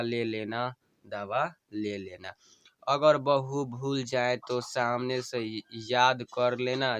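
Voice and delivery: slow, tender recital of a dying wife's plea; dying wife's farewell. Acted. Wife bidding her husband farewell, tender and pleading.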